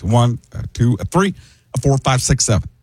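halting count that accelerates; slow, then speeding up. Shown as a demonstration. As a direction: start with pauses, then run the numbers together. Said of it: "He talked slow at the beginning, uh, and speed up at the end".

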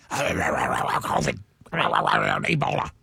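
low, slow, strained imitation of RFK; RFK impression. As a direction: drag out Ebola in a low rasp. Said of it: "That actually sounds just like him".

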